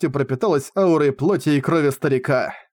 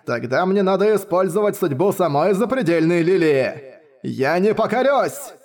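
put-on furious old man. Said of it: "яростно закричал старик".

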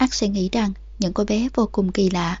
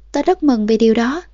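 decisive; 6 dB louder than usual. Acted. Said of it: "'tớ rất mừng' một cách dứt khoát".

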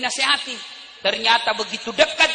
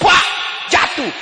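seruan jatuh; 7 semitones higher, 4 dB louder, slower than usual. Acted. Suara orang didorong jatuh.

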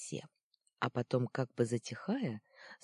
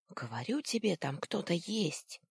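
lightly voiced insistent little boy; child's voice; 4 semitones higher than usual. Boy above insisting to his friend, lightly childlike. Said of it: "послышался сверху детский голосок".

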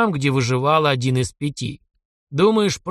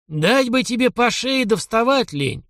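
slow, higher mock threat with a snort; lazily scoff, higher and slow; 10 semitones higher, slower than usual. A narrator's reading. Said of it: "фыркнул граф". (фыркая, медленно и выше)

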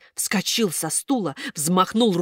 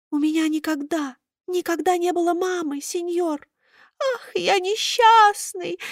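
high, crying pitiful wail; pitiful lament; 11 semitones higher than usual. A narrator's reading. Buratino laments to Karabas, high crying voice. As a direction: wail about having no mother.

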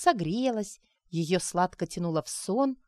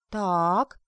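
sharp; 4 dB louder than usual. Acted. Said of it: "резко вытянулась Арина".

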